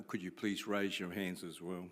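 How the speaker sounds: ordinary delivery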